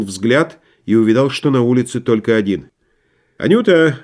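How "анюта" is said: high, lively call; brisk shout. A narrator's reading. Myshlaevsky calling the maid upstairs, brisk shout. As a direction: call out cheerfully, pitched up. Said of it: "бодро, выздоровев от бронхита, вскричал".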